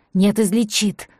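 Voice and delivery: usual speaking voice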